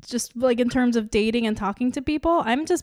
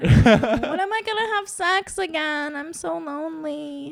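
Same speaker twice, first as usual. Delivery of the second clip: mock lonely wail; 5 semitones higher than usual. Host bemoaning her dating life, mock lonely wail. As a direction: wail it in hammed-up self-pity.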